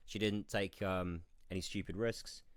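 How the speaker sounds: groggy, hungover speech. Real, not acted. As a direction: search for words through a hangover. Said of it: "so hungover today, Matt. I apologise".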